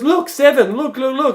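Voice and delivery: insistent, hammed-up Vietnamese accent; attempted Vietnamese accent. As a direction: imitate an arguing driver with a faked Vietnamese accent. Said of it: "I'm trying to do the accent".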